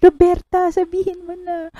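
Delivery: high, loud dramatic shout of Roberta; reciting a shouted line. Retold or imitated. Fan reciting a family fight, loud dramatic shout. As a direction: shout it like the movie's confrontation. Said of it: "kayang-kaya ko itong, ano, i-recite".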